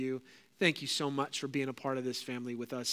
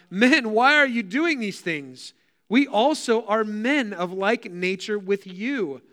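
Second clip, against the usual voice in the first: loud, higher, slow appeal; urgent scriptural cry with stretched stresses; 6 semitones higher, 6 dB louder, slower than usual. A narrator's reading. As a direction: call out to stop a crowd. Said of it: "crying out".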